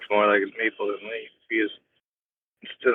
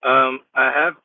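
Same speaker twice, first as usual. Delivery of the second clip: robotic, through the car speakers; talking through a car phone system. Real, not acted. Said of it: "sound more robotic".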